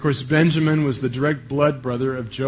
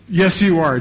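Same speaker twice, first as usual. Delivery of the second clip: insisting; 4 semitones higher, 5 dB louder than usual. Retold or imitated. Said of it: "Joseph insisted".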